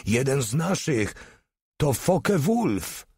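high excited shout. A narrator's reading. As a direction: cry it out with joy. Spotting a German plane. (radosne podniecenie)

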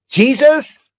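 put-on high, small child's voice, slow on mad; little boy praying. Little son praying to Jesus at his bed, high child voice. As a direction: pray like a worried little boy.

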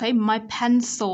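slow "my pencil" ending on held l; teacher demo of the l in "pencil"; curled-tongue L. Shown as a demonstration. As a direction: curl the tongue lightly to end "pencil". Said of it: "Chúng ta sẽ uốn nhẹ lưỡi ở cuối từ".

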